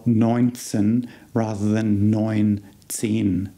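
"neunzehn" said first with a clipped short zehn, then with the full long one; shortened zehn. Shown as a demonstration. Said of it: "we can shorten the zehn part".

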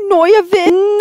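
"Noya-vin" for nervous, R lost to an oy; nervous garbled into "Noya-vin"; mispronouncing nervous. Acted. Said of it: "It's pronounced nervous".

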